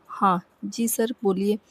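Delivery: a lightly put-on heavier man's voice, slow; slow down and play the manservant Shambhu, barely changed; Shambhu's heavy voice. Zeenat, faking Shambhu on the phone to her boss, mild heavy voice. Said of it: "थोड़ी भारी सी आवाज़ में, बिल्कुल शंभू की आवाज़ में".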